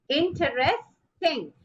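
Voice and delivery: "interesting" said slowly, syllable by syllable, in-ter-est-ing; slow syllable demo. Shown as a demonstration. Teacher breaks down "interesting" for the class, slowly. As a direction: stretch "interesting" out slowly so each syllable is heard. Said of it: "what will take the stress?".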